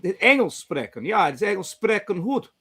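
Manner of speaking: halting Dutch, groping for words; broken Dutch. Pretend. Attempting Dutch for the listeners in a Dutch accent. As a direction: fumble through schoolbook Dutch. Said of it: "what's the airport?".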